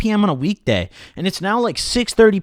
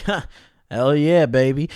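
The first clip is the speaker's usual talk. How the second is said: douchey brag; 2 semitones lower than usual. Pretend. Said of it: "then I sound like a fucking douche".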